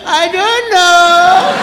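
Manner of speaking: put-on slow, high, dopey child; dumb child voice. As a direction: drag it out like a clueless kid. Child's answer in story.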